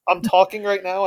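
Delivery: talking with nose pinched; nose held shut while speaking; pinching nose. Shown as a demonstration. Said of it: "I'm plugging my nose".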